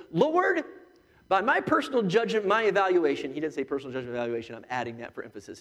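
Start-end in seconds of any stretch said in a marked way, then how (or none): 0.1-3.3 mock Peter. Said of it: "And so Peter goes".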